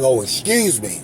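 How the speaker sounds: normal talking voice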